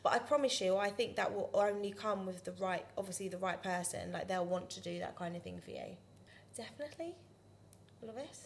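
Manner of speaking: light Scouse lilt; Liverpool accent. Pretend. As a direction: chat with a Liverpool twang. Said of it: "You're doing a Liverpool accent".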